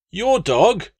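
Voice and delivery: high, loud indignant call across the pit; pompous legate calling from his seat. Acted. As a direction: call down in disbelief. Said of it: "Latius called from his seat".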